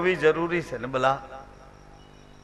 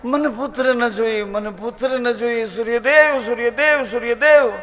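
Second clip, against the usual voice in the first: pleading; 3 semitones higher than usual. Acted. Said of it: "બૂમ પાડે છે".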